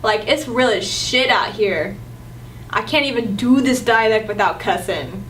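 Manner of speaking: tough East LA Chicano street talk; light East LA accent. Acted. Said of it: "if I wanna be from East L A".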